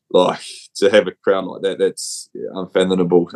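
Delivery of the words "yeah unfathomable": "unfathomable" slurred as "unfanthonable" through a blocked nose; stumbling over a hard word. Real, not acted. Guest with a cold fumbling "unfathomable" on a podcast. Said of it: "I can't even say that word 'cause I got a cold".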